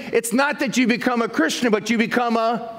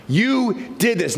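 accusing; slower than usual. Retold or imitated. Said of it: "having a condemnation upon him".

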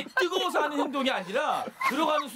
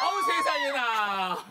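amazed exclamation; much slower than usual. Real, not acted. Amazed at matching outfit.

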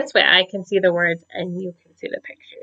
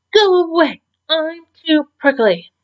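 higher, whiny grumpy brush-off; 8 semitones higher than usual. A narrator's reading. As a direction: snap it off like a sulky kid. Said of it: "grumpy voice".

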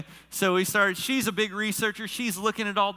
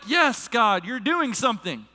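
raised, emphatic cry to God; excited affirmation; 4 semitones higher, 3 dB louder than usual. Retold or imitated. Preacher reliving God's confirmation on the call, exclaiming excitedly. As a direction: call it upward, thrilled. Acting out his excited response.

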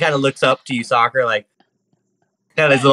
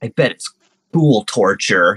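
pouty; 3 semitones lower, 3 dB louder than usual. Acted. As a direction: pout like a kid who's missing out. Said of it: "like, pouty".

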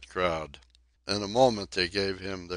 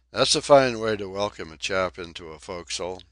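fast, louder indignant snarl; 6 dB louder, faster than usual. Acted. Donkin resenting his welcome, a fast snarl. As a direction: snap it out, offended. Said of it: "he snarled".

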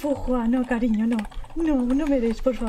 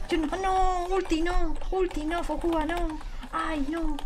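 fearful pleading; 3 semitones higher, 4 dB quieter, slower than usual. Real, not acted. Pleading with enemy not to attack. (súplica asustada, aguda y bajita)

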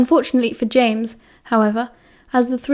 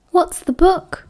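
panting; 7 semitones higher, slower than usual. A narrator's reading. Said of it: "Lily panted".

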